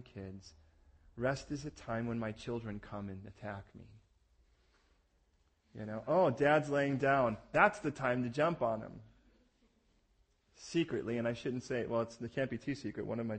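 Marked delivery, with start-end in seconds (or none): 6.1-7.4 put-on slow, louder kid voice spotting dad; playful kids' voice. Children pouncing on resting dad, eager.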